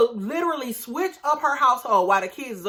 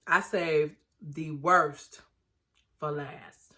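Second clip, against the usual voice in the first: hushed tease; 5 semitones lower, 4 dB quieter, much slower than usual. Real, not acted. Teasing viewers about worst couple.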